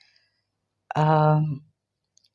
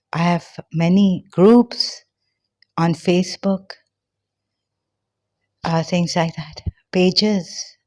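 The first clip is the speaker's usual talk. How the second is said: breathless talking; out of breath. Real, not acted. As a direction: speak while short of breath. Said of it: "Okay, I'm out of breath now".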